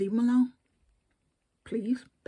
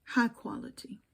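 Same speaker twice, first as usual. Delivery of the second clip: sarcastic echo; 3 semitones higher than usual. Shown as a demonstration.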